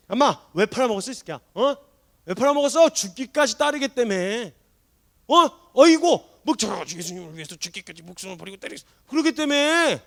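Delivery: loud, high mocking sneer; a hammed-up imagined Jesus scoffing; sarcastic jeer. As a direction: ridicule his broken promise. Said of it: "이렇게 막 비아냥거리지".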